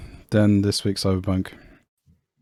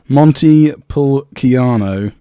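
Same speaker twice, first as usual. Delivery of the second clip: slow, loud hammed-up Italian accent; 8 dB louder, much slower than usual. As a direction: drag out the Italian wine name with mock flair. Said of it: "I'd love to hear your Italian accent".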